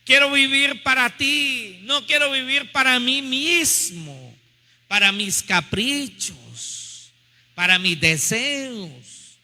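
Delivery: slow, impassioned pleading prayer; fervent prayer. Real, not acted. Preacher leading the congregation to tell the Lord, fervent prayer. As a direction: pray it out slowly, stretching the key words.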